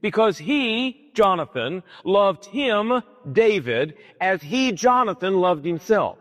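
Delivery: slow, halting, with a pause between phrases. Shown as a demonstration. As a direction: lay it out one piece at a time. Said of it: "Jonathan loved David the way Jonathan loved".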